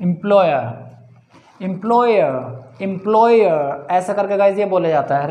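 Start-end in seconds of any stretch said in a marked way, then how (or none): 0.0-3.9 एम्प्लॉयर with a silent final r; non-rhotic pronunciation. Shown as a demonstration. Teacher modelling the word for students, slow non-rhotic pronunciation. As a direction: say एम्प्लॉयर slowly, ending in a schwa instead of an r. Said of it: "रे नहीं बोला जाता".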